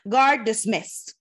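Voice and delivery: loud, slow parade command; officer's command. A narrator's reading. Officer dismissing the guard, a slow loud command. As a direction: call it out across the parade ground.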